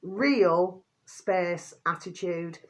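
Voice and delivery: very slow, deliberate "Real space attitude"; slow dictation of "Real space attitude"; spelling out a name. Shown as a demonstration. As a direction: spell out the channel name carefully so they can type it. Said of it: "they're both capital letters".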